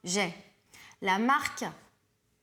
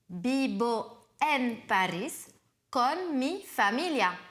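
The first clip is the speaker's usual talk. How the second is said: slow model sentence; slower than usual. Shown as a demonstration. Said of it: "tu peux faire une phrase complète".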